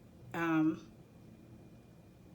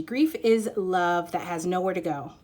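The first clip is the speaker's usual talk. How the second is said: slow, loud recitation; odd emphatic reading; 6 dB louder than usual. Real, not acted. Reader starting the grief banshee message, slow overdone reading. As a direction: declaim it slowly and forcefully. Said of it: "I don't know why I read that like that".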